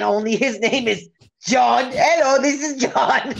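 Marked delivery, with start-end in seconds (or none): 1.9-3.3 mock Indian accent, breaking into a laugh; same put-on Indian accent, amused; imitated call-center accent. Samsung agent who sounds like Steve, mock Indian accent. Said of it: "it sounds like Steve again".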